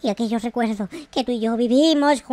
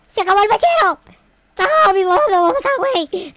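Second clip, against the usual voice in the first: louder, higher panicked cry about mom; yelping in real dismay over the lost lighter; sudden panic; 6 semitones higher, 4 dB louder than usual. Real, not acted. Gamer panicking to himself about his mom, loud and whiny.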